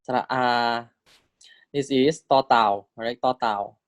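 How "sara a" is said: "Sara a" whispered, no voice; a teacher whispering the vowel name. Shown as a demonstration. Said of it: "And this is sara a".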